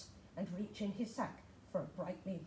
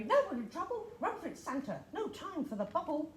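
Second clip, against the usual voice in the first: urgent cry; 6 semitones higher than usual. Acted. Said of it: "cried the Tooth Fairy".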